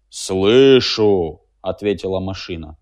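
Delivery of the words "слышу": loud, strange voice of the machine. A narrator's reading. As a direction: speak as a big stubborn machine. (голос машины)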